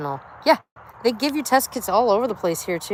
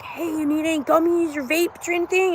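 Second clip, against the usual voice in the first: high, hawking street seller voice; street vendor pitch; 10 semitones higher than usual. Retold or imitated. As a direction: call it out like a roadside dealer selling from a car. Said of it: "they're like".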